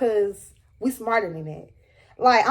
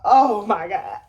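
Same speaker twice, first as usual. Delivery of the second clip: retold tearful dread; 4 semitones lower, slower than usual. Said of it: "I'm starting crying".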